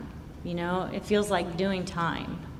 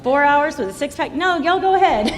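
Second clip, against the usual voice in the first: laughing mock refusal; 7 semitones higher, 7 dB louder than usual. Mock reply to boat friends.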